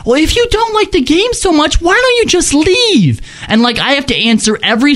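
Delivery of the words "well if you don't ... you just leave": mocking fanboy voice. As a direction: sneer it like a smug fanboy. Mocking the fans' stock reply.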